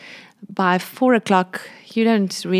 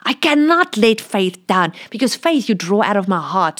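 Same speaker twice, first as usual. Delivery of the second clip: voice of God. Retold or imitated. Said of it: "God just said".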